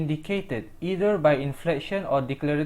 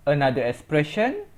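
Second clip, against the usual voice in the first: normal talking voice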